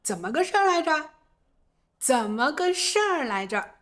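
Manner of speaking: lightly voiced casual demo; casual what happened. Shown as a demonstration. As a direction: toss it off fast. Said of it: "也有人会这样表达".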